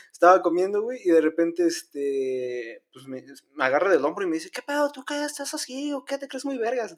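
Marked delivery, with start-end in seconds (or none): 4.5-6.9 higher, exaggerated northern Mexican tough-guy challenge; mock norteño accent. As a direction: ham up a norteño bully picking a fight. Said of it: "Tenía acento norteño".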